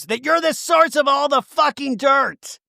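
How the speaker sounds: high, drawn-out imitation; mock angry accusation. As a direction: accuse her in hammed-up outrage. Retold quarrel.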